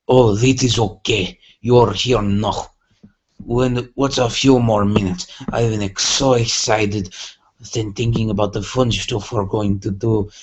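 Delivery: put-on slipping into a loose Irish accent; a light, wandering Irish lilt; weird Irish accent. Pinkie greeting Dash in a mock Irish accent. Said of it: "devolved into a weird Irish accent".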